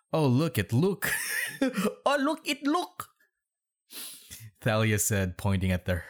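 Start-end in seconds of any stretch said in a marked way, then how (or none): 0.1-3.1 high, giggly read through laughter; laughing. Real, not acted. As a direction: lose it laughing as you repeat the line. Cracking up at the misspelt name.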